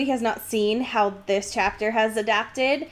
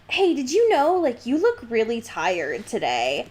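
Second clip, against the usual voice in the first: mock casual remark. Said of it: "telling someone, like".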